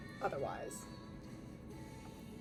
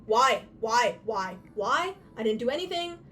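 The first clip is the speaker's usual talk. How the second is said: frustrated; 6 dB louder than usual. Real, not acted. Repeated frustrated why at phone.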